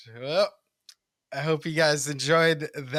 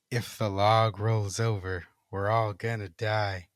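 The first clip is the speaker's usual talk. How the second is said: slow, low eerie chant; 3 semitones lower, slower than usual. Acted. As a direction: drone it out slowly like a ghost. Ghostly voice, clearer now.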